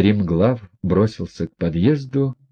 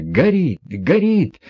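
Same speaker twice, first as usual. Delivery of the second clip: rising, higher alarmed cry; crowd shouting; 6 semitones higher, slower than usual. A narrator's reading. Guests all shouting at the fire, high rising alarm. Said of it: "кричали все в один голос".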